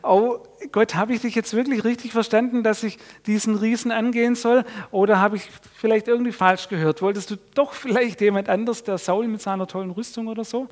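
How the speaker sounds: put-on an uneasy boy doubting his call; light doubts. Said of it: "so die leichten Zweifel". (zweifelnd, etwas höher und hastig)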